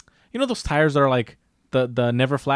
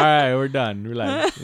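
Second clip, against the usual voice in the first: mock dog voice. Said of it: "she looked at me like".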